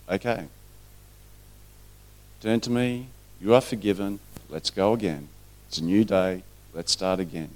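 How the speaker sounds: soft, calm and forgiving; tender reassurance. Acted. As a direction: quietly coax someone to begin afresh. Voices Christ speaking kindly to him.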